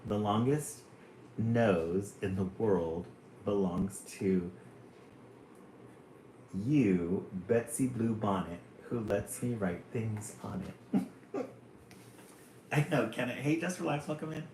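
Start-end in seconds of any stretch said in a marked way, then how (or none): 0.1-11.1 poem reading. Acted. Reads third poem aloud.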